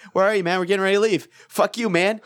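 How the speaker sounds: mildly exasperated imitation; retold rising impatience. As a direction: replay a friend's increasingly impatient voicemail. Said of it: "I loved how you went from".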